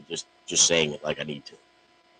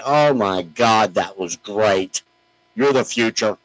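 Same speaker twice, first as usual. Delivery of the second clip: slow, louder, higher hammed-up praise; drawn-out mock flattery, louder and higher; mock gushing praise; 4 semitones higher, 5 dB louder, slower than usual. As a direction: gush over it like a fake fan. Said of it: "put powder on the cake for you".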